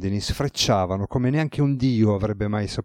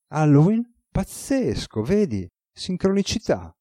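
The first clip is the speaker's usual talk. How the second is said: much higher, thrilled exclamations; delighted amazement; 8 semitones higher than usual. Acted. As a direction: savour the coincidence with glee. God delighted by coincidence.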